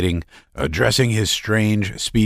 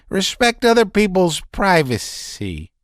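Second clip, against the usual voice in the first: high, strained, nervous voice; a man near hysterics pouring it out; agitated Laevsky; 11 semitones higher than usual. A narrator's reading. Laevsky's outburst.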